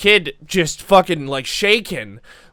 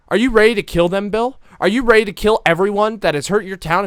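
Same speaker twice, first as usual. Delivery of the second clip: raised, higher rallying voice; rousing challenge; 5 semitones higher, 6 dB louder, faster than usual. Acted. Tough woman rallying Bill to fight, loud and urgent. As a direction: fire the kid up to fight.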